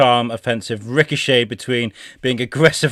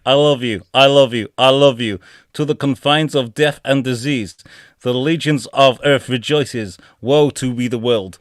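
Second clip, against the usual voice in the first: stupid AI voice. Acted. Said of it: "read these out in these stupid voices".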